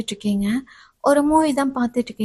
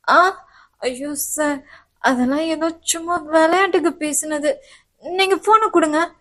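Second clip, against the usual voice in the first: higher, slow flustered pleading; embarrassed, grab the phone back; flustered student; 4 semitones higher than usual. Acted. Student begging the professor for her phone.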